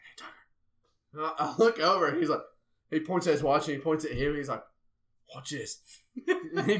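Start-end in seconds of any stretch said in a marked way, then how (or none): 0.0-0.3 very hushed, secretive aside; retold whisper. Friend whispers behind him during the vows, hushed imitation. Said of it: "whispers behind me". 5.3-5.8 retold whisper. Friend quietly lets him in on the prank, imitated whisper. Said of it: "whispers behind me".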